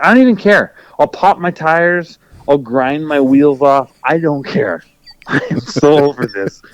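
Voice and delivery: mock exasperated self-talk ending in a laugh; fed-up outburst. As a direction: throw your hands up, half laughing. Retold fed-up inner voice.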